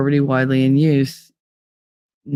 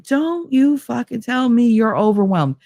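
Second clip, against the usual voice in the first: retold angry scolding; 8 semitones higher than usual. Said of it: "And he was like".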